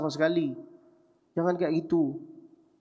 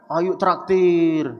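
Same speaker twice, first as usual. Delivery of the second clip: slow, louder drawn-out demand; teasing demand; 2 semitones higher, 4 dB louder, much slower than usual. Retold or imitated. Cousins demanding he treat them, slow and louder. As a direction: stretch it out, pushing him to pay.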